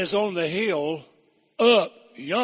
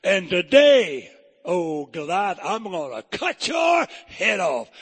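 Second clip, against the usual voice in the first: louder, slow defiant shout; cocky teenage David; 2 semitones higher, 5 dB louder, slower than usual. Retold or imitated. David shouts his challenge up at Goliath. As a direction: smart aleck daring the giant. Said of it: "wasn't he a smart aleck teenager".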